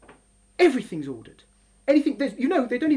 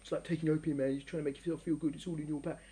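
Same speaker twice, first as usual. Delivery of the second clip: mock Marxist; 8 semitones lower, 8 dB quieter, faster than usual. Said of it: "This isn't a Karl Marxian".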